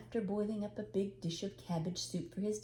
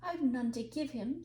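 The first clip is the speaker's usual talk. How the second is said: bitterly; 5 semitones higher than usual. Acted. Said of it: "said the young woman bitterly".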